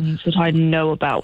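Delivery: pompous broadcaster, lightly mocked; mock radio voice. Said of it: "doing your radio voice".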